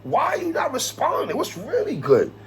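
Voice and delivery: high-pitched mock call-out; a rapper. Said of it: "In my rapper voice".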